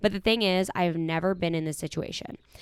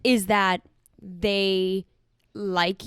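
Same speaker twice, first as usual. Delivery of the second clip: whisper; much slower than usual. Acted. Host drops to a whisper.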